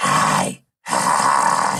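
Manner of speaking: very low, raspy smoker's voice with vocal fry. Demonstrating a voice technique in a conversation, smoker's voice with vocal fry. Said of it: "now you have what I call a smoker's voice".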